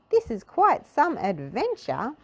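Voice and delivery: a cheery adventurer relishing the trip; hearty Mister Adventure. A narrator's reading. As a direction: say it like a bold explorer. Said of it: "said Mister Adventure".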